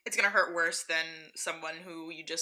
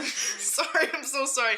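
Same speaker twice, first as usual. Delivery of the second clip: choking on a drink; 6 semitones higher than usual. Real, not acted. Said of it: "I went down the wrong pipe".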